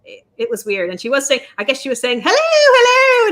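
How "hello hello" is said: high, hammed-up British "hello"; mock posh British accent. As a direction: imitate a prim British greeting, much higher. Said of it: "in a British accent".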